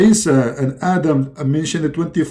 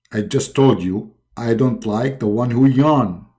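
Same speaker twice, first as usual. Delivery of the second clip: low god voice; 3 semitones lower than usual. Pretend.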